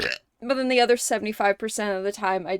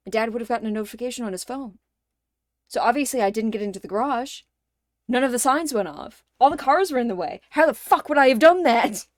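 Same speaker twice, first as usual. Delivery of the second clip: exasperated rant; 4 dB louder, faster than usual. Retold or imitated. Exasperated retold inner reply.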